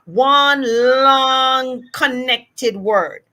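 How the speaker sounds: slow, stretching "long" right out; drawn-out connected words. Shown as a demonstration. Therapist illustrating connected speech, words stretched. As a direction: draw "long" out into the next word. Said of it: "How we speak is like".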